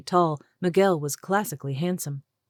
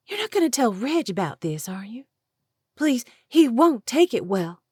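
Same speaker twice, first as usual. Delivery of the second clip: panicked pleading; 8 semitones higher, 4 dB louder than usual. Acted. Panicked plea to keep secret.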